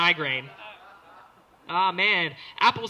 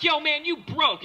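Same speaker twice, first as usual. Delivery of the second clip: higher, slow mocking jab; calling him out; 10 semitones higher, 6 dB louder than usual. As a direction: needle the broke dealer. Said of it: "You just be like".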